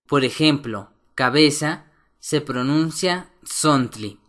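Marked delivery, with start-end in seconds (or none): 3.4-4.2 "tzontli" with TZ said almost like a Z; TZ close to Z. Shown as a demonstration. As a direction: begin "tzontli" on a ts sound, near a Z. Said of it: "T Z se pronuncia casi como la Z".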